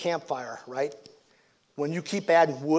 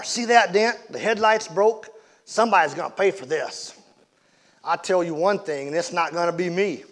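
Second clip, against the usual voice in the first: raised, indignant voice, high on the first words; angry driver; 4 semitones higher, 4 dB louder than usual. Acted. Injured man pointing at his dented car, indignant and loud. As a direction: demand payment, outraged. Driver showing damage angrily.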